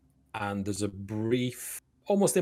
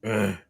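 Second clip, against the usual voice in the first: growl; 6 dB louder than usual. A narrator's reading. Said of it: "he growls at you".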